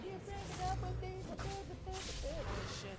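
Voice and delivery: very high squeaky stammer, mocking her; mock sputtering girlfriend. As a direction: sputter in a shrill-high parody voice. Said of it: "And then she".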